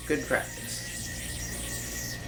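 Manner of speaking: slow unvoiced whisper. Real, not acted. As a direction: whisper it very slowly. Repeat whispered slowly.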